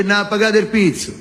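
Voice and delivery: rattled-off Roman orders; mock Roman gangster; Roman accent. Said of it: "A uno del Roma".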